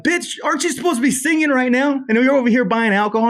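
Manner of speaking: high mocking voice catching a friend buying booze; mock incredulous call-out. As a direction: tease her in a squeaky disbelieving voice. Mocking her at liquor store.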